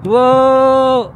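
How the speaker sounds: high, loud, drawn-out wow; awed whoop. Real, not acted. Rider sees beautiful view, loud high wow. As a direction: belt out amazement at the view.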